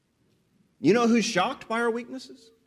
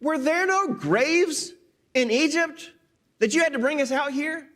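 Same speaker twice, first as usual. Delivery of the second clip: sarcastic; 6 semitones higher than usual. Retold or imitated. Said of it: "they sarcastically criticize Moses".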